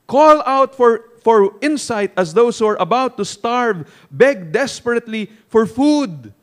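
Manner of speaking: slow, forceful sermon reading; emphatic reading. Acted. Preacher urging congregation to seek insight, forceful slow reading. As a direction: declaim the quote, punching the key words. Reads commentary aloud to congregation.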